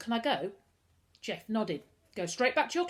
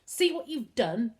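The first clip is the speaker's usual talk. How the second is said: louder, slow accusing shout; boy shouting at his stepsister; 5 semitones higher, 7 dB louder, slower than usual. A narrator's reading. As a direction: hurl it at her. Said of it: "Lloyd shouted at Dinah".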